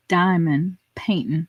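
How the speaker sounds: slow, low, with a puzzled pause; baffled deadpan. Retold or imitated. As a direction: imitate a bewildered man spelling it out. Man retells baffling request to wife.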